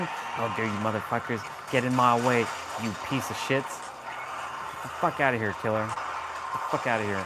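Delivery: seethe at the enemies, then hiss them away; the angry gamer alter ego; unconscious rage version. Retold or imitated. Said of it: "This is the unconscious version".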